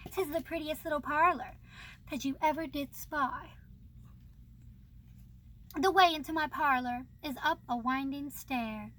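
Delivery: put-on reading the old verses aloud with gentle lilt; poem reading. Reading a classic children's poem to viewers, storybook recital.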